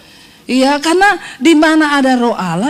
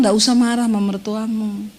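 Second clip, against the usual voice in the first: gentle counsel; 5 semitones lower, 4 dB quieter than usual. Retold or imitated. Voicing the Holy Spirit.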